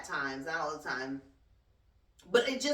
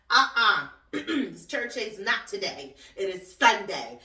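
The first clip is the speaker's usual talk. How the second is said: sassy scold; 7 dB louder than usual. Real, not acted. Scolding slow drivers.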